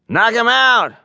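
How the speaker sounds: a logger shouting to urge on the fight; shouted. A narrator's reading. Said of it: "one of them shouted".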